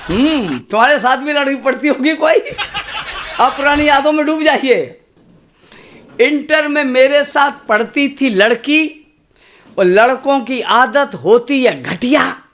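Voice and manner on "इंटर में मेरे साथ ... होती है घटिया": measured, rhythmic stage recitation of a poem. Acted. Poet reciting verse to a kavi sammelan crowd, rhythmic. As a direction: recite to the audience with a steady beat.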